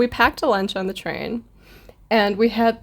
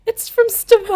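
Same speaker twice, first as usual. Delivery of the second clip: laughing quote; 12 semitones higher, 4 dB louder than usual. Retold or imitated. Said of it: "and I'm like".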